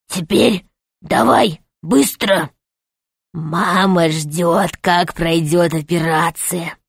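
a sly rat boss, slow and cold; rat man. Acted. Rat gives orders, low and quiet.

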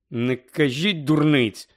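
slow, smiling reassurance; forced smile. Acted. Harry comforting Mrs Weasley with a forced smile. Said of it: "зобразив усмішку Гаррі".

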